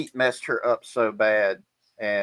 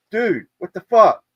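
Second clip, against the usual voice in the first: shocked shipmates; 9 semitones higher, 8 dB louder than usual. Retold or imitated. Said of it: "they're like".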